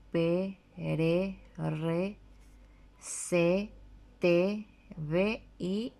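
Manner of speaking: each syllable said separately, one by one; reciting syllables. Shown as a demonstration. A teacher reciting the Guarani syllables for pupils. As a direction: list the syllables like a drill. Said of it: "le agregamos la letra E".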